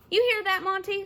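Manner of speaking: high, loud teasing jab; bully mocking Chet to his buddy; mocking taunt. A narrator's reading. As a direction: make fun of the worried kid. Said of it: "Sid said".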